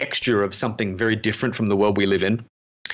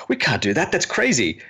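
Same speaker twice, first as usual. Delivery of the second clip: mock dismissal; 6 semitones higher than usual. Acting out his habitual dismissal.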